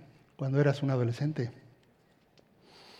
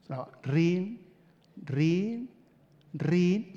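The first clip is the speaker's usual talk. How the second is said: phone ring imitation; 3 semitones higher, much slower than usual. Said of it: "hacía sonar tres veces el teléfono".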